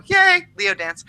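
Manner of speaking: high, bright little cheer; excited cheer. Real, not acted. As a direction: celebrate it like a happy dance. Cheering the moon into Leo.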